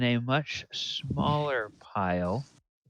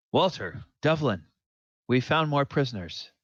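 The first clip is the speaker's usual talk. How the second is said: higher, urgent in-character report; raised, hurried announcement; urgent calling out; 4 semitones higher, faster than usual. Acted. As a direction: call to companions with news. Character runs in calling companions.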